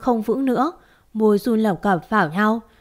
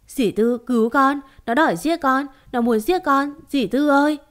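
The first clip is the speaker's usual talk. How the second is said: higher and tearful, begging for help; sobbing plea; 4 semitones higher than usual. Acted. To aunt Tư after the nightmare, tearful and pleading. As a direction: cry out to the aunt between sobs. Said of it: "khóc mếu máo không ngừng".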